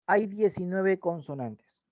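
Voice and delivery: hay diecinueve consonantes said slowly, stressing hay; slow emphatic. Shown as a demonstration. Teacher stating the consonant count to students, slow and stressed. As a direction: lay the fact down slowly. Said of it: "¿Sí?".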